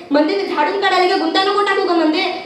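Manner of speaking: repetitive singsong nag; nagging complaint. Acted. Woman sweeping, complaining about tangles, nagging. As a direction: moan rhythmically at her, still held in.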